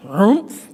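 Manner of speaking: short grumbly grunt; mock bear grunt. Bear grunts leaving into the night, mock grunt. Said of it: "he growled".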